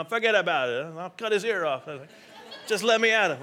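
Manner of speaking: hammed-up Italian accent; joking tough-guy Italian accent; Italian accent Peter. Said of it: "I do an Italian accent".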